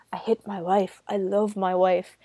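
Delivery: hushed, lightly acted anguish; half-whispered retelling of a distraught husband; imitated distraught confession. Gordon confessing to Phil about his wife, mildly distraught. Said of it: "he's so distraught about it".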